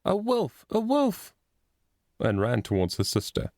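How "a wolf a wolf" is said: mild narrated scream. A narrator's reading. Little boy warning his sister of a wolf, mild scream. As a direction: cry out in alarm, restrained storyteller's scream.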